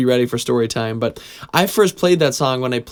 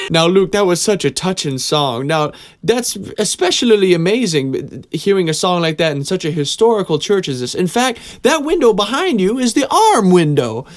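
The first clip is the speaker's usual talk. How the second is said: higher, louder Southern preacher voice; thick Southern accent; 7 semitones higher, 4 dB louder than usual. Retold or imitated. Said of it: "he had this thick Southern accent".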